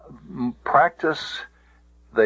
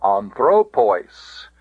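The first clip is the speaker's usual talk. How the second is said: "anthropois" very slowly, THRO raised and stressed; stress on penult; slower than usual. Shown as a demonstration. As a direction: say "anthropois" as an-THRO-POIS, long ending. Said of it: "no further than the penult".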